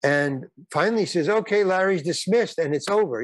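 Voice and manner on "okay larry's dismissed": mock announcement. Director dismissing the actor after his scene, mock announcement. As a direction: lightly imitate calling a wrap, pitched up.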